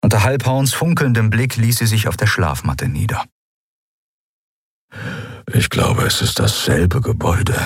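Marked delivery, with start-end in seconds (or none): 5.5-7.6 a hushed, partly voiceless murmur; low murmur. Acted. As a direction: keep it down so the guard can't hear. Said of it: "brummte Keru leise".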